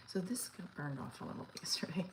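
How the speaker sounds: soft whispered aside; whispering. Real, not acted. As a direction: whisper it to yourself. Quiet aside.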